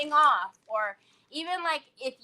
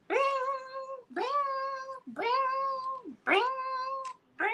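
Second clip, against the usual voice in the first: phone pinging. Retold or imitated. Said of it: "the frickin' thing was going".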